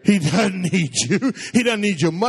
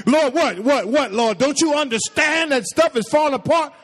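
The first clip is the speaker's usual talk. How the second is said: frantic mock plea, higher-pitched; demanding prayer; 4 semitones higher than usual. Preacher mimics believers begging God as things fall apart, frantic. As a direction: badger God with comic desperation. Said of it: "we pray like that".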